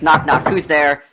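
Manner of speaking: slow, drawn-out joke. Retold or imitated. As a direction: drag out the joke slowly. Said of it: "does he do knock knock jokes".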